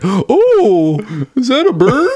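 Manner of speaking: put-on high, dreamy child voice; airy mock child wonder; distracted kid. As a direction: drift off like a distracted little kid. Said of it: "I'd be like".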